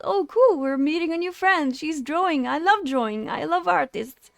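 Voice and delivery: excited thought. Retold or imitated. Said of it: "I thought".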